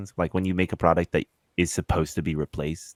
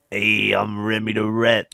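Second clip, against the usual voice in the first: Remy impression; 4 dB louder, slower than usual. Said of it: "That's what he sounds like".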